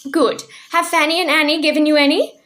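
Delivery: put-on high little old woman's voice; tiny old woman. A narrator's reading. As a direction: pipe up like a tiny old shopkeeper. Mrs Corey questions daughters.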